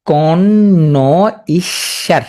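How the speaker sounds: "কন", "ন", "ঈশ্বর" with long gaps; slow separate chunks ending on "ঈশ্বর"; syllable-by-syllable pronunciation. Shown as a demonstration. Teacher showing how to say connoisseur, broken into syllables. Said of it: "উচ্চারণ করবে কি হবে".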